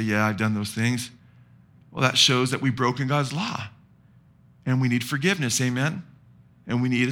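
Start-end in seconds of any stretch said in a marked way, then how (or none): 0.0-1.1 low, subdued mock confession; imitating someone caught out; sheepish admission. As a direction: own up reluctantly, pitch dropped. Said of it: "they just get real sheepish".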